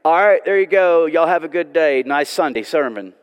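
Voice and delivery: offhand preacher wrapping up; mock breezy dismissal. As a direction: brush them off lightly. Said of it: "He's not saying".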